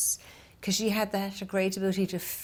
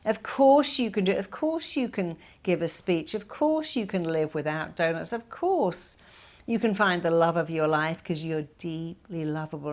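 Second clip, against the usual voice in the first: cheerleader. Retold or imitated. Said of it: "becomes your cheerleader".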